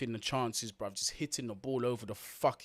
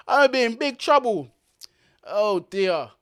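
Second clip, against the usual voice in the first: mock worry; 8 semitones higher, 11 dB louder than usual. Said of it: "I'm not allowed to say that word".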